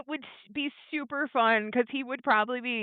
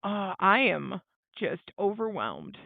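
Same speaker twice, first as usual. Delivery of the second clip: slow, low, drained deadpan; overwhelmed therapist; 4 semitones lower, 4 dB quieter, slower than usual. Pretend. Imagined therapist admitting she can't cope, mock overwhelmed. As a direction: let it drag out, lightly overwhelmed. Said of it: "being the therapist in there and just being like".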